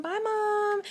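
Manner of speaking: high, quick goodbye tossed over the shoulder; hurried goodbye. Retold or imitated. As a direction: call it out while running past. Rushing out past mom.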